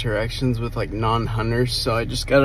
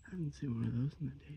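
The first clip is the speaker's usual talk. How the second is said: quick, very soft undertone; hushed; 3 semitones higher, 16 dB quieter, much faster than usual. Real, not acted. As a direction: say it fast under your breath. Hunter keeping quiet near game.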